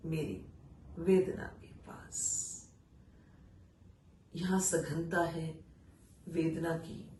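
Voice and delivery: slow, weighty recital with long pauses; poetry recitation. Acted. Reciting an exile poem to listeners, solemn recital. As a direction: let each line land, then pause.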